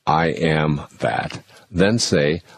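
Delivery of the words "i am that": very slow mantra on the out-breath. Shown as a demonstration. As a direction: let it out slowly with the breath. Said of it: "on an out-breath saying".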